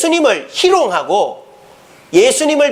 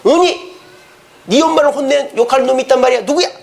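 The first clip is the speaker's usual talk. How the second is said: higher, outraged father act; mock indignation; 4 semitones higher than usual. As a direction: flare up on a daughter's behalf. Acted king's indignation at daughter's complaint. (목소리를 높여 발끈하는 아빠 흉내)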